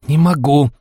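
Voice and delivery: plaintive. Acted. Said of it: "раздалось жалобно".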